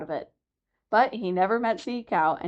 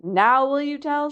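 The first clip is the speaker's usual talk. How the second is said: out of breath; 7 semitones higher, 3 dB louder than usual. A narrator's reading. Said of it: "all out of breath".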